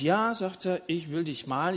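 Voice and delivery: normal talking voice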